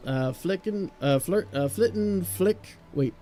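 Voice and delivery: lightly put-on Irish lilt; a loose Celtic brogue for the old sailor; a hint of Scottish brogue for an old sailor; Irish or Scottish accent. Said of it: "It sounds a little bit more Irish, maybe a Scottish".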